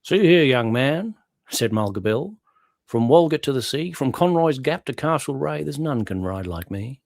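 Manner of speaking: bush-ballad recital in a broad Aussie brogue. Acted. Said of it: "you got a wonderful Aussie, uh, brogue there".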